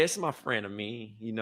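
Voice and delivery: dropped, softened work voice; talking low. Acted. Trey mock-introducing a friend at work, talking low. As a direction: play it low and subdued. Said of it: "talking so low".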